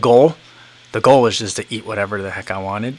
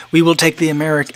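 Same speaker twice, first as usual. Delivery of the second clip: mock Korean-people accent, higher pitched; put-on Korean-people accent; 5 semitones higher than usual. Korean hosts offering pizza to the American, lightly put-on accent. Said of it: "I say the Korean people's accent".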